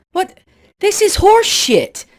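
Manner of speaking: a tiny munchkin blowing his top; outraged munchkin. Acted. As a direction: munchkin furious about his voice.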